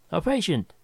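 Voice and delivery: high, delighted exclamation; exclaiming. Acted. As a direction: burst out with eager glee. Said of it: "he exclaimed".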